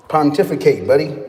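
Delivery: chuckling through the word; laughing. Real, not acted. Teasing a chatter who asked about trades, laughing. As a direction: laugh it out at the viewer.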